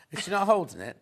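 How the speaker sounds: giggling through the question; amused, half laughing; kind gentle laugh. Real, not acted. Presenter giggles at the mouse.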